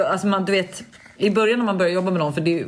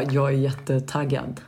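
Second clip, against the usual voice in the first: imitating calm Alice; 4 semitones lower, slower than usual. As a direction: say you're excited with zero excitement. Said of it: "Alice är väldigt lugn".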